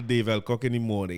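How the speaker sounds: usual speaking voice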